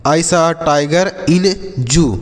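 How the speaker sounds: very slow, every word stretched; slow model sentence. Shown as a demonstration. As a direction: say it slowly so pupils can copy. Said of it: "जैसे". (धीरे-धीरे, शब्द खींचकर)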